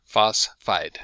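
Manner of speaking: Phosphide said in just two syllables, FOS-fide; correct pronunciation. Shown as a demonstration. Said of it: "two syllables".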